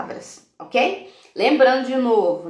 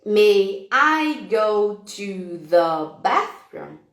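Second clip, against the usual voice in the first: very slow, each word set apart; counting words slowly; much slower than usual. Shown as a demonstration. Teacher counting the child's words one by one, very slowly. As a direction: tap out every word as you count. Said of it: "a gente vai contar".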